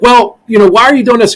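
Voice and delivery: high, loud mock attorney challenge; lightly voiced skeptical lawyer; questioning attorney. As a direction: act out an attorney querying the client. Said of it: "when they went to the attorney".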